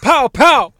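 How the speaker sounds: mock gangster voice. Mock gangster rap bit.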